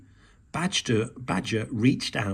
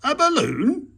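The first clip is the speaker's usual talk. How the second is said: higher, louder startled gasp; gasping surprise; 13 semitones higher, 6 dB louder than usual. A narrator's reading. Badger learning the cloth was a balloon, gasping. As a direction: gasp it out in disbelief. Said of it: "gasped Badger".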